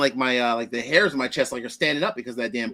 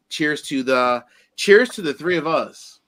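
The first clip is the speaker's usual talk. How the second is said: louder, raised toast; 2 semitones higher, 4 dB louder, slower than usual. Real, not acted. Toasting his two co-hosts on the stream, loud and festive. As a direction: lift the glass and call out cheers.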